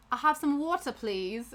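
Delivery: imitated British request with "wor-tuh"; British accent. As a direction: politely repeat the order in a British accent. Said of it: "of course he's British".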